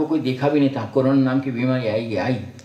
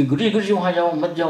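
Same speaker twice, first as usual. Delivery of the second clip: imitating an anxious disciple; 5 semitones higher than usual. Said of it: "तो शेषु महाराज का कहना था".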